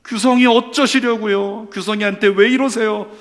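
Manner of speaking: high, loud, drawn-out plea, easing down at the end; imitated tearful prayer. Friend praying for his heartbroken classmate, imitated tearful pleading. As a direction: cry out to God, then sink into pleading. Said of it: "제가 울면서 이렇게 했습니다".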